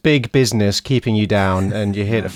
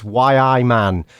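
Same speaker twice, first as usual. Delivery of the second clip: Geordie phrase; much slower than usual. Shown as a demonstration. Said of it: "three magic words".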